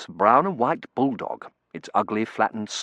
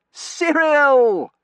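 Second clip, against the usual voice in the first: loud, high cry of a name; cried out; 8 dB louder than usual. A narrator's reading. Terence crying out for his friend as the dog charges, loud. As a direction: yell out for your friend. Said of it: "Terence cried".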